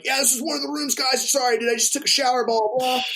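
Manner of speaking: imitating the methed-out mom brushing it off; tweaker mom voice. Methed-out mom greeting the guys at the door, high mock voice. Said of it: "And she's like".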